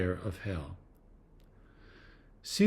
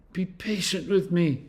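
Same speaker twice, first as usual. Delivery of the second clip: a mild pleading lift, reading aloud; begging; 5 semitones higher than usual. A narrator's reading. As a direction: gently plead for patience. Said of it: "he begged".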